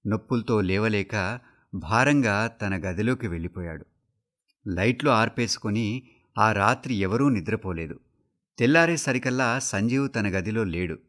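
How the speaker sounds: usual speaking voice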